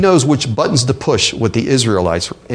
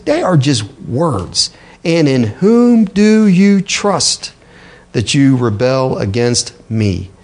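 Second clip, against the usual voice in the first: taunting Assyrian envoy; slower than usual. Acted. Rabshakeh taunting Jerusalem's king.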